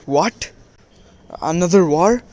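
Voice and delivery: retold startled question, rising on the second part; mildly acted incredulity; shocked disbelief. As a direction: act taken aback, lifting into the question. Retold shock at news of war.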